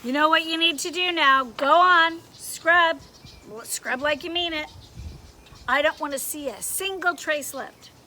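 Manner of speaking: loud, stern orders; drill-sergeant commands; bossy conscience. Acted.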